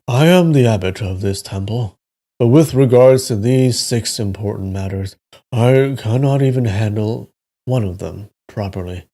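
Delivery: story narration. A narrator's reading. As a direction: read the tale aloud with deliberate phrasing. Reads the novel aloud.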